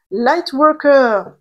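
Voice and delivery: slow English with a French accent; Light worker in a thick French accent. Shown as a demonstration. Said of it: "avec mon bel accent là".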